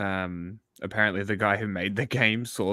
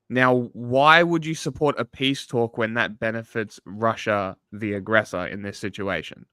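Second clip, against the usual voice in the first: interviewer question. Shown as a demonstration. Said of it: "I would frame it like this".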